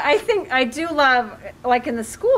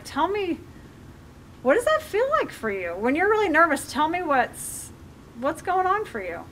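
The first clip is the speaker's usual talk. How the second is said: higher, lightly coaxing parent voice; gentle coaxing; 4 semitones higher, 3 dB quieter than usual. Acted. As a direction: invite a child to open up, gently curious. Models parent gently drawing child out.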